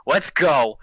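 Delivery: lightly voiced battle robot; a hint of a robotic war cry. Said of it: "like, that kind of robot voice".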